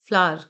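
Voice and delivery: फ्लावर squeezed into nearly one syllable, 'flaar'; reduced flower. Shown as a demonstration. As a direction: run the middle of फ्लावर together into a long 'aa'. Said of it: "not flower, फ्लावर".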